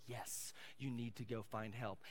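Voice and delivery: soft, voiced stand-in for a whisper; gentle whisper. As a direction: say it low and soft, like a nudge from God. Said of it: "And the whisper was".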